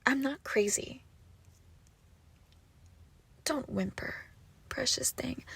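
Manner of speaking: soft, hissing whisper to a captive; menacing whisper. Acted. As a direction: lean close and whisper the threat. Soothing her captive with knife.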